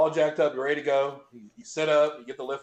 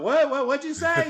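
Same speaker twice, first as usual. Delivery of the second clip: high-pitched baffled asking; retold high, confused "what?"; can't hear; 11 semitones higher than usual. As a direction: ask as if your ears are popped. Retold, ears popped, can't hear.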